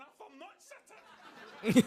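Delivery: slow, very loud exasperated outburst; hammed-up frustrated Scottish shout; mock angry Scot. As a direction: bellow it like a furious Scot stuck in a lift, laughing. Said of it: "Scottish people who'd be going".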